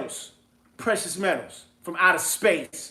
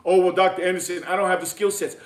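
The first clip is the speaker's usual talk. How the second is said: mocking whiny listener; 3 semitones lower, faster than usual.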